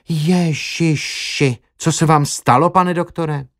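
a slow drawn-out gasp on Ježiši, then a rising question; shocked nurse exclaiming at his bruised face; startled cry. A narrator's reading. Nurses see the doctor's battered face, startled cry. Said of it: "vyjekli většinou hned".

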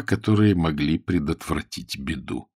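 ordinary delivery

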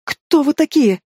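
high falsetto yelp from a man; falsetto squeal. A narrator's reading. Cowering man confronts intruders, squealing in falsetto. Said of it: "взвизгнул фальцетом когда-то мужской голос".

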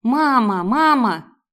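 детский крик, громче, со слезами; позови маму сквозь плач, как ребёнок. A narrator's reading. Девочка плачет, зовёт маму. (девочка со слезами зовёт маму)

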